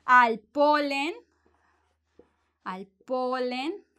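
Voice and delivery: Al polen said slowly, word by word; slow drill. Shown as a demonstration. Teacher drilling the phrase for students. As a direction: repeat Al polen slowly and clearly.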